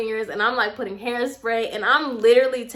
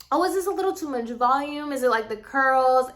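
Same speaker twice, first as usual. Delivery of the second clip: quick, feigned-innocent question; playing it off; 3 semitones higher than usual. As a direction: rush it out as if nothing is wrong. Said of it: "trying to play this off".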